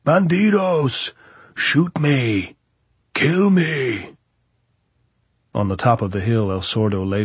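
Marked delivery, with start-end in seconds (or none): 0.0-4.2 high, loud, drawn-out jeering yell; taunting shout. Acted. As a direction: taunt the enemy at full voice. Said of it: "the voice came".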